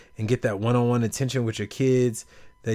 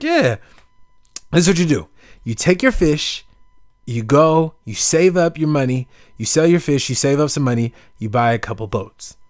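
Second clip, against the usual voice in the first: louder, higher, lecturing; know-it-all businessman; 3 semitones higher, 6 dB louder than usual. Retold or imitated. Tourist lecturing the fisherman on his plan, eager. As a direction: pitch the grand plan eagerly. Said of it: "So the dude was like".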